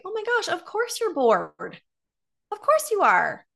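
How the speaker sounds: high-pitched, exclaiming validation; acted-out burst of understanding; retold emphatic sympathy. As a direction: exclaim it high, as if it's obvious. Retold emphatic reply to bored mom.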